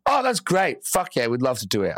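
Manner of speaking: overly eager reply. Retold or imitated. Client replies too happily.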